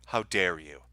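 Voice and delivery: low, quiet scolding machine. Pretend. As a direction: play the vending machine chiding you. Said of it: "the vending machine is going to say".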